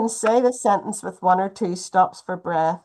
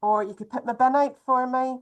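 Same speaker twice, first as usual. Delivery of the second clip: eager list of jobs; 4 semitones higher than usual. Retold or imitated. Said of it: "and you say".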